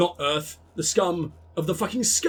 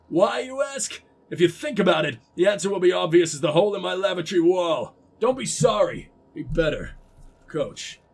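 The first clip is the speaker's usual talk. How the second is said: lightly voiced stern American coach; attempted American accent. Coach scolding the team over repairs, put-on American accent. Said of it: "I can do an American accent".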